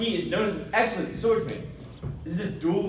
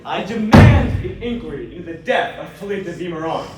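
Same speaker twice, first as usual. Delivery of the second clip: firm demand; 7 dB louder than usual. Acted. Lawyer insists before magistrate.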